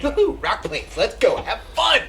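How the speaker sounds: high, loud whoop of glee; excited whooping. Acted. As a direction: cheer the party on at full volume. Player cheers as party sets off.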